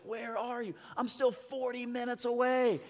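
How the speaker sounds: lightly dramatized back-and-forth; acted phone exchange. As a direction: voice both ends of an anxious call. Acts out urgent phone exchange.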